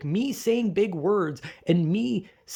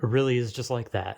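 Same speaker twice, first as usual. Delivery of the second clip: resigned inner thought; 5 semitones lower than usual. Retold or imitated. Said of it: "think to myself".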